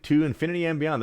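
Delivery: a hint of Buzz Lightyear's bold catchphrase, said in full; mild mock heroics for the chat; Buzz Lightyear impression. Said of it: "Buzz Lightyear, thank you".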